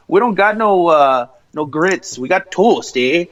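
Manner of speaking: a hint of Wisconsin accent, slow; mildly mock the Wisconsin waitress, drawing it out; lightly imitated Wisconsin accent. Retelling the diner waitress, with a hint of Wisconsin accent. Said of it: "however she fucking said it in the little Wisconsin".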